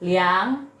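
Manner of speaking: slow "liang" that dips and climbs; "liang" pushed down before it swings up; dipping third tone. Shown as a demonstration. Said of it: "Ini nada ketiga nih".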